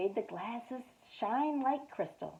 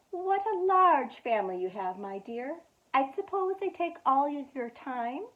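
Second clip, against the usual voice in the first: kind grandfather; 5 semitones higher than usual. Acted. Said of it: "his voice was so kind".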